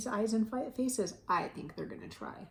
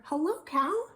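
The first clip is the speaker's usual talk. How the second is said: higher, louder duck hello; cheery duck greeting; 9 semitones higher, 5 dB louder than usual. A narrator's reading. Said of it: "said Duck".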